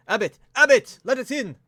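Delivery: loud, high desperate calls; shouting for the abbot. Acted. Shalvis yelling at the abbey door, loud and high. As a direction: pound on the door and yell. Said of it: "he's just shouting".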